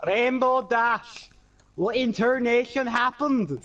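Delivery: badly faked Russian accent; clumsy Russian-accented reading. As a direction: attempt a Russian accent and miss. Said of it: "I tried to do a Russian accent".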